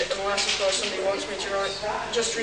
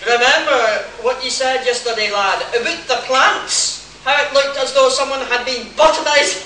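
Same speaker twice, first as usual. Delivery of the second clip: put-on Scottish accent; 4 dB louder than usual. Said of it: "in a straight Scottish accent".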